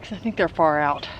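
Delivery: breathless from digging; out of breath. Real, not acted. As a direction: talk while catching your breath. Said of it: "I'm out of breath".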